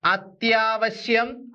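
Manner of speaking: അത്യാവശ്യം said slowly, syllable by syllable, rising at the end; slow careful pronunciation. Shown as a demonstration. Teacher slowly sounding out the word for students. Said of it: "അടുത്തതിലേക്ക് നോക്കാം".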